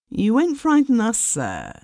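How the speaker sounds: high, rising protest; indignant protest. A narrator's reading. Another man protests.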